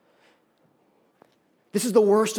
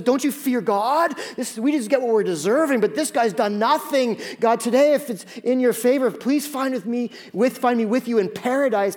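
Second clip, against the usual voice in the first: pleading criminal; 4 semitones higher than usual. Acted. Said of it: "Criminal two looks at him and says".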